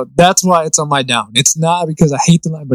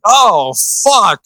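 lightly voiced weary cop, higher pitch; a hint of a fed-up old cop cursing; Danny Glover; 6 semitones higher than usual. Complaining about his shoulder, lightly doing Danny Glover. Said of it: "my voice will automatically suddenly turn into Danny Glover".

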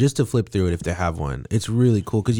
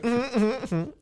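high mock humming, mouth closed; imitating someone humming while chewing; mouth-full humming; 4 dB quieter than usual. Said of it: "Danny's like".

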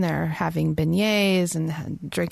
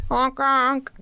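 silly clown; 6 semitones higher than usual. Pretend. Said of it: "get your sound effects out".

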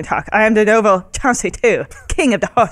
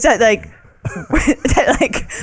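put-on lightly done valley girl drawl; a hint of valley girl, lots of "like"; 3 semitones higher, much slower than usual. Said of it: "He talks like a valley girl".

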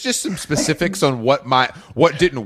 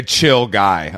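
put-on "chill guy" with a slight American accent; 7 semitones lower than usual. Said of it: "Don't do your American accent".

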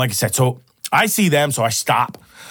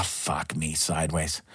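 deadpan; 9 semitones lower, 12 dB quieter, slower than usual. Retold or imitated. Punchline, disbelief at the bet.

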